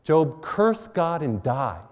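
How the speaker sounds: mocking the friend's cruel advice, slowly; friend's taunt. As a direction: draw it out like a scornful friend. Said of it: "what his friend said to him".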